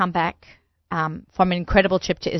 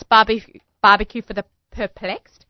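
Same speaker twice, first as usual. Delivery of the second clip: slow, deliberate enunciation after a stumble; very slow, careful; slower than usual. Real, not acted. Host signing off the chef's restaurant name, very slowly. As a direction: pick through the tricky name slowly. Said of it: "I have to say it very slowly".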